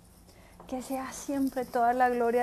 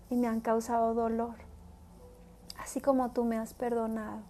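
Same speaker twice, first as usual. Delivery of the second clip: prayer. Acted. Preacher leading listeners in prayer, earnest and devout. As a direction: pray it from the heart. Leads sinner's prayer aloud.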